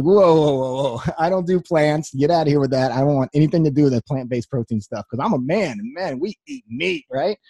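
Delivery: brushing it off like a meat-only gym guy; mock macho refusal. Whey-protein gym guy waving off his wife's friend, mock macho.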